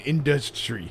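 industry with an extra hard T; odd pronunciation. Retold or imitated. Host mimicking a speaker's odd word, mispronounced. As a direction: say industry stumbling on the DUS-TRY. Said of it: "He always says it weird".

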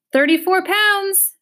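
slow, high, loud bird shriek; piercing drawn-out squawk. A narrator's reading. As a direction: screech it out, stretching the words. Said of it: "shrieked the bird".

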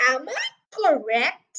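lightly voiced slow, officious sergeant; ponderous police sergeant. Sergeant checks the facts with Mister Hazel, lightly officious. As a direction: question him with slow official weight.

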